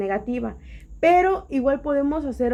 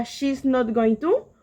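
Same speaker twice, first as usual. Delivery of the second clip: slow English example; much slower than usual. Shown as a demonstration. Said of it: "negativa sería".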